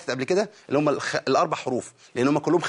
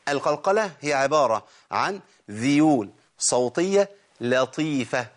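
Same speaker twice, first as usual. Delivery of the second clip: quoted definition; much slower than usual. Retold or imitated. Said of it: "الشيخ قال".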